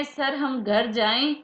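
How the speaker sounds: slow, asking student's plea; a mild hint of a student begging to leave; pleading student. Student asks the teacher to go home, mildly pleading. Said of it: "अब हम पूछ रहे हैं".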